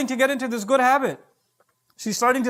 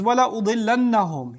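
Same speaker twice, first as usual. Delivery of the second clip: Quran recitation; much faster than usual. Shown as a demonstration. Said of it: "verse recitation".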